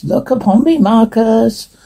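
high, sustained demon command; demonic voice. Acted. Demon commanding Marcus to look, demonic voice. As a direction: pitch it up and hold the name eerily. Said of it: "Demonic voice".

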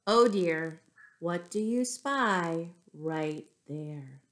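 lively storybook reading voice; reading to children. Acted. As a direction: read the tale to little kids. Reads picture book to children.

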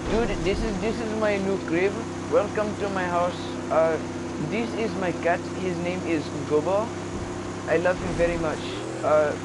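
put-on a light, lifted Indian accent voice; half-hearted Indian accent impression; mock Indian accent. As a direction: show off your crib in a put-on Indian accent. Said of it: "I do a killer Indian man".

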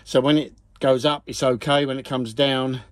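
winded from kneeling and working; out of breath. Real, not acted. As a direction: puff through the words, slightly breathless. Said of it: "Sorry about my huffing and puffing".

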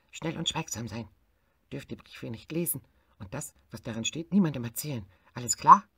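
a boss hare laying down the rules; hare giving orders. Acted. Hare instructs the forest hares, building to a loud question.

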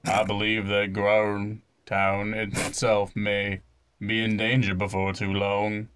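lightly voiced, measured young chief; a hint of a solemn child leader; young chief in earnest. Young chief confiding in visitors, lightly acted and earnest. Reads game character's speech.

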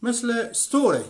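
ستوری slowly, starting on a bare s with no vowel before it; Pashto demo word. Shown as a demonstration. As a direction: demonstrate ستوری with the initial st cluster. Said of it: "مثل چی؟".

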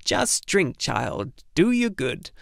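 tiny wrinkled healer coaxing; coaxing old crone. Acted. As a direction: urge the sick boy to drink, gently. Tiny old healer coaxes Atreyu.

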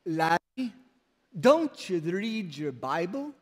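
lightly imitated Scottish accent; a touch of Scottish brogue. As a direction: ask it as an old Scottish preacher, accent light. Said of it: "his Scottish brogue or Scottish accent".

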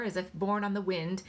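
usual speaking voice

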